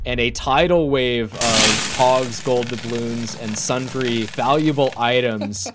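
dramatic action narration; emphatic storytelling voice; game master narration. Acted. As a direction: narrate the clash, punching and stretching key words.

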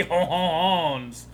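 hammed-up French honhon; lightly voiced French hon hon; a hint of a cartoon French accent; mock French. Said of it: "that's how I should have gotten my French accent".

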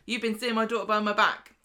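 loud, indignant confrontation, put on; mock outrage. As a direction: retell a parent's affronted challenge. Acted outraged parent confronting someone.

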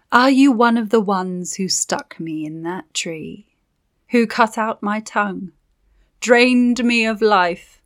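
lightly voiced bitter witch, slowing; accusing spirit, a touch of menace; vengeful witch.

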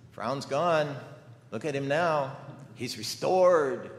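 bright pleased wife, drawing out restored; mom's glad voice. Retold or imitated. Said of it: "my mom would always say".

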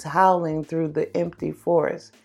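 somber story narration. A narrator's reading.

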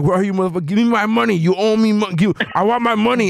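mock Moon Knight. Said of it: "he was like".

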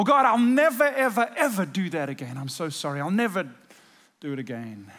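promising God never again; remorseful vow. Retold or imitated. Imitating his own remorseful vow.

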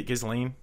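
"Ghislaine" as giz-lane, questioning; hard G with Z. Shown as a demonstration. Trying out pronunciations, "Ghislaine" as giz-lane. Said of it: "I thought it's G".

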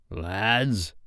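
subdued unease; shaking a little. A narrator's reading. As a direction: address the men softly, a little shaken. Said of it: "he said, shaking a little".

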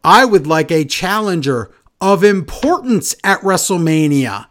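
slow, drawn-out mock tough-guy promo; lightly hammed-up slow wrestling promo voice; mock Damian Priest promo. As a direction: drag each word out like a self-serious wrestler. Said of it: "Damian cuts a promo saying".

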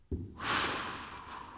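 long breath out with each step; steady hiker's exhale; heavy exhaling sigh. Shown as a demonstration. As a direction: breathe out slow like a hiker on a climb. Demonstrating the rest step.

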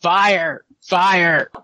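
loud, high cry of alarm; acted yell. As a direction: yell it out to raise a false alarm. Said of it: "she starts to yell".

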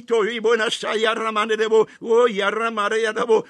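rapid rhythmic tongues, syllables tumbling out; fervent glossolalia in prayer; speaking in tongues. Acted. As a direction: pray in tongues, lost in the spirit. Praying in tongues.

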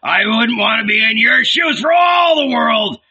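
high, jeering amusement; loud, gleeful scoffing; laughing mockery. A narrator's reading. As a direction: tease him with rising glee. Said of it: "burst into laughter".

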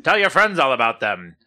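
loud, upbeat TV ad pitch; toy commercial voice. Pretend. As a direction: sell it like a holiday toy ad. Mock toy advert.

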